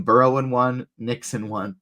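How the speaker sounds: speaking through hiccups; hiccuping between words. Real, not acted. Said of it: "got the hiccups".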